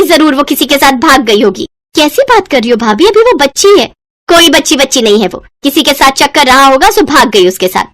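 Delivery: harsh dismissive. Acted.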